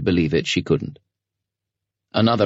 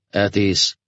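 gruff commander voice; 2 semitones higher than usual. A narrator's reading. Commander dismisses Artyom.

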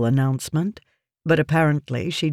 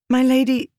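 trailing off; 9 semitones higher, 4 dB louder than usual. A narrator's reading. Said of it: "she trailed off".

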